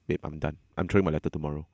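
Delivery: soft and low, fading out; flat quiet resignation. Retold or imitated. Telling his girlfriend he quits, quiet and drained. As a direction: say it drained, nothing left. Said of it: "I just".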